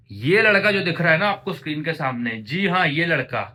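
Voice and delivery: high, booming self-introduction; loud mock announcement. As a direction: announce yourself loudly to the crowd. Booming announcement of himself to viewers.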